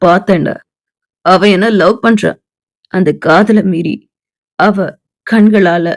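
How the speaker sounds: put-on low, calm young man; Arjun's voice.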